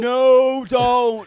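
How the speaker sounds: a touch of mock panic; mock pleading no. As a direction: beg them not to, half-joking. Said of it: "And we're like".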